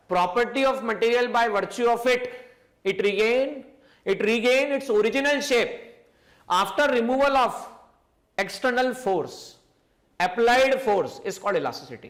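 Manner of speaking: very slow, word by word; slow dictation. Shown as a demonstration. Teacher dictating the definition of elasticity, very slow. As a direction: spell out the definition for note-taking. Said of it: "elasticity का basic meaning क्या था".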